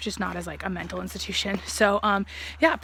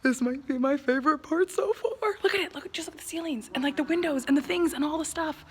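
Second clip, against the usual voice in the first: breathless wonder, voice lifted; awed; 5 semitones higher than usual. Real, not acted. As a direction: marvel at the ceilings. Awed by the old barn interior.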